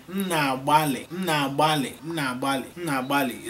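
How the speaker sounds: M na-agbalị said clearly for learners to echo; M na-agbalị drilled phrase by phrase; repeat after me. Shown as a demonstration. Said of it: "Say with me".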